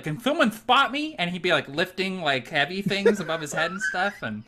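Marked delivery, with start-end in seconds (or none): 0.0-1.1 buff bro. Retold or imitated.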